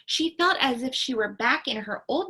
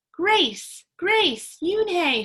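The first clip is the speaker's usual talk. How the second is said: higher, louder repeated calls; excited shout; 7 semitones higher, 6 dB louder, much slower than usual. A narrator's reading. Ralph shouts the new name, excited. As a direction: call the name out proudly. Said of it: "shouted Ralph".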